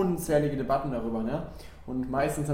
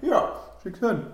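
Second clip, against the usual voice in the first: laughing; 7 semitones higher, 6 dB louder, slower than usual. Real, not acted. Coughing fit from cloves.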